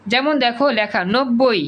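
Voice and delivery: normal talking voice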